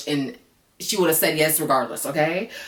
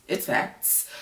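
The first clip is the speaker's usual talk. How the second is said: whispered, softer aside; 6 dB quieter than usual. Real, not acted. Agreeing that Amy is out of his league, whispered. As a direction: breathe "It's facts" as a whispered aside.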